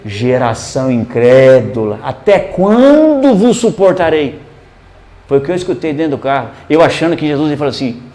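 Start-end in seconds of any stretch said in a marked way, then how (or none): 0.0-4.4 slow, lightly acted reproach; solemn quote, starting low, rising midway; Jesus's rebuke. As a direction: draw it out as a retold rebuke. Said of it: "Aí Jesus completa".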